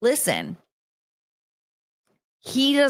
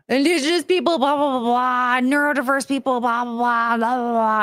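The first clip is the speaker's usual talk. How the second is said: mock a droning complaint, syllables run together; mocking blah-blah; 3 semitones higher than usual. Streamer mimicking someone's novel-length message, mocking. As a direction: imitate a tedious ranter, starting high.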